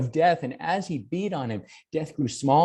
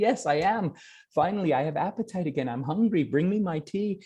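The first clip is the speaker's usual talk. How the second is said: higher, bright with relief; a healed mother telling her son she feels better, in a higher voice; revived mother; 4 semitones higher, faster than usual. Acted. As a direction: sound suddenly alive and well again. Healed mother asks for tea.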